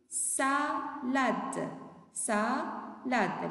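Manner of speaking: salade split into sa and lade, drawn out; syllable-by-syllable model. Shown as a demonstration. Teacher names the picture for pupils, syllable by syllable. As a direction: stretch each syllable of salade.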